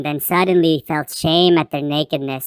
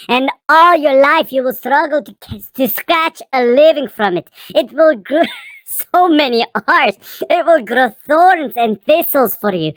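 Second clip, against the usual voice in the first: raised, solemn divine decree; stern God voice; 4 semitones higher than usual. Acted. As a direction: pronounce the curse from on high. God's curse to man.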